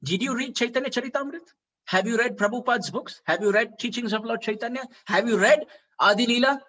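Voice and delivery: acted-out indignant rebuke, firing questions; angry scolding. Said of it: "got so angry".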